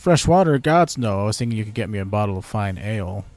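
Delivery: mock British guard, hailing a stranger; British accent. Sentry hailing a passing stranger, in a light British accent. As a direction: play a bored British sentry. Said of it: "very British".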